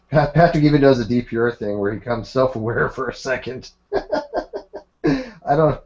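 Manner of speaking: reads the comment aloud through laughter; real laughter breaking in, pitch jumping up; laughing while reading. Real, not acted. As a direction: crack up partway through the quote. Reading viewer comment, cracking up.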